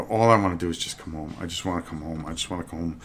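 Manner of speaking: put-on whiny man child. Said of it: "I sound like a big baby".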